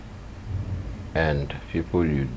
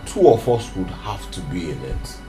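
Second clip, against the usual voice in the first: rising louder and higher to a shout; heated protest; 10 semitones higher, 7 dB louder than usual. Acted. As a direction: argue back, building to a yell. Son arguing back with mother.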